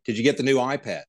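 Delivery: light Aussie accent on "iPad"; trying an Australian accent for a comic exchange; attempted Australian accent. Shown as a demonstration. American guest acting out an iPad mix-up, attempted Australian accent. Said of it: "I try to do it".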